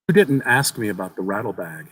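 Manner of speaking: lightly voiced young boy. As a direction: tell it like an eager child sharing a secret.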